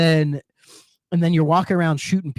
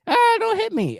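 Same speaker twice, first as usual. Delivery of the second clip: mock plea. Game bystander begging not shot.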